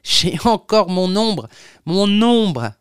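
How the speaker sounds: acted gloating shout; triumphant cry. A narrator's reading. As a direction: call it out exultantly, stretching the last word. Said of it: "qui éclatait de rire et criait dans la rue".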